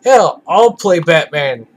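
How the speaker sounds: low, slow gruff hero voice; gravelly Batman voice. Pretend. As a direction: growl it like a brooding vigilante. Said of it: "I'll use my regular, very low".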